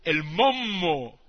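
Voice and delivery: greedy Trombino. Acted. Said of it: "dice Trombino".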